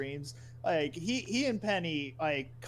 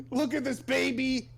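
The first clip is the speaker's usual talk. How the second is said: mock excited; 9 semitones higher, 5 dB louder than usual. Reenacting the baby scene.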